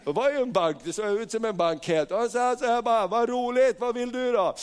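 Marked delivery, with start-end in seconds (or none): 3.1-4.6 high, delighted welcome; cheery banker. Retold or imitated. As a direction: greet the customer with pleased interest. Bank director greets him cheerily. (glatt, ljust välkomnande)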